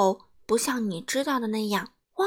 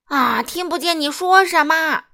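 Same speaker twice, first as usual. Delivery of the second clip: loud, high roar; 6 semitones higher, 8 dB louder than usual. A narrator's reading. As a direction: roar at the customer. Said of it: "牛奶店老板咆哮着说". (高声咆哮)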